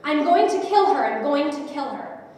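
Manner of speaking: loud acted yell, easing at the end; screamed threat. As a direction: imitate a raging man's repeated threat. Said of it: "screaming at the top of his lungs".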